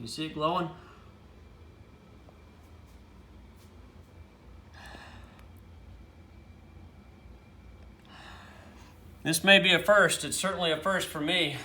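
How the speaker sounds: loud, winded, breathless, out-of-breath speech. Showing a fresh ember from hand drilling, out of breath. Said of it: "I'm a little out of breath".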